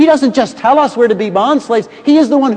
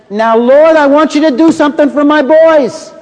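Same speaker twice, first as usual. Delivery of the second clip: pushy mother; 7 semitones higher, 5 dB louder than usual. Acted. Preacher voices pushy Jewish mother.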